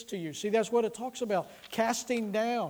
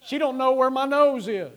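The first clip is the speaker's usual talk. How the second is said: put-on loud, high kid voice; high-pitched, incredulous kid's protest; indignant child; 5 semitones higher, 8 dB louder than usual. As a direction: imitate a little boy loudly complaining. Voicing the child's indignant thought.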